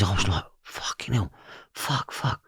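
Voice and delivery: hushed, breathless whisper of shock; whispered swearing. Retold or imitated. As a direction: whisper the curses under your breath. Shocked realisation whispered in cell.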